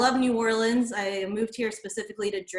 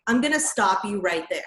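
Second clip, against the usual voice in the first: stern entitled customer-service voice; white lady manager voice; 4 dB louder than usual. Acted. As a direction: talk like a pushy manager lady. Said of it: "practicing my white lady manager voice".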